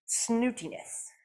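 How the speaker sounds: slow, haughty snootiness; snooty. Pretend. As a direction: drag it out with a lifted nose. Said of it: "I feel snooty".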